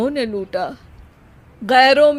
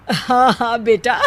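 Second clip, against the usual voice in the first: laughing. Acted. Father laughing at his son.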